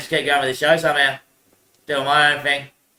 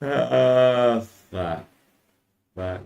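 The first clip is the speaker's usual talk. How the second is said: muttered curse; 5 semitones lower, 5 dB quieter, much slower than usual. Real, not acted. Curse after laughing.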